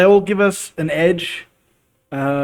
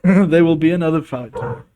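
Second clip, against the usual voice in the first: with a laugh, louder; 3 semitones higher, 6 dB louder, faster than usual. Shown as a demonstration. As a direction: laugh through the line. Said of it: "repeated line".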